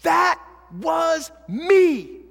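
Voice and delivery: slowly, loudly, as if it hits home; slow emphatic echo. Retold or imitated. Pastor echoing the youth's confession, slow and loud. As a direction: stretch each word slowly and hit me hard. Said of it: "repeats the youth's words".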